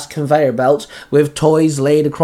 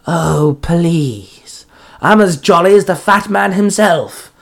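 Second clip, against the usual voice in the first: scornful villain bark, climbing higher; drawn-out scoff, then a higher boast; Jack Frost; 4 semitones higher, slower than usual. Acted. Monster scoffs at the hero's plea, barking. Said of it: "Jack Frost barked".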